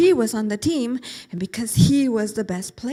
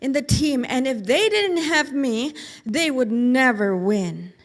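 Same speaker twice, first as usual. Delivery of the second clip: put-on bragging boy; 4 dB louder than usual. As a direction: show off to the family. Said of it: "starting to tell his family".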